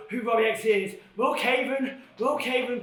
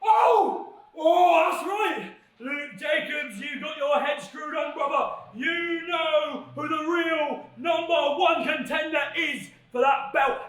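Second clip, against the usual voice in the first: shouted excited praise for his partner; excited hype; 2 semitones higher, slower than usual. Real, not acted.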